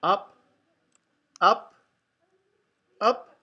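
loud, rousing title announcement; excited title call. A narrator's reading. Reading the book title to a child, excited title call.

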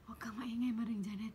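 retold hushed whisper; imitated whisper. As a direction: whisper it as a friend warning. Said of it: "Nagbubulong si Joy".

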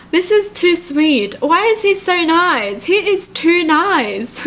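touched, lingering on the words; gushing. Real, not acted. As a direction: swoon over how sweet he is. Gushing over the sweet texts.

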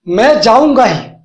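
मैं punched, ही leaned on; emphatic stress. Shown as a demonstration. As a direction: stress on मैं, firm falling tune. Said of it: "ये हम जोर दे के बोल रहे हैं".

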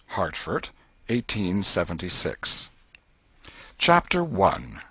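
plain reading voice

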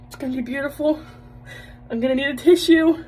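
hammed-up swoon, almost tearful; mock excitement. Wife mocking her hopes for husband's romance, high and giddy. Mock anticipation of a love speech.

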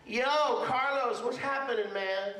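put-on high, casual kid's greeting; cheeky kid greeting. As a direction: toss off a breezy street hello like a kid. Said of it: "child comes to you in the congregation and goes".

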